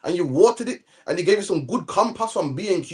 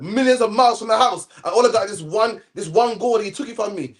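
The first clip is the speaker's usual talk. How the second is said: complaining Jonah; 3 semitones higher than usual. Retold or imitated. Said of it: "Jonah said, Jonah said".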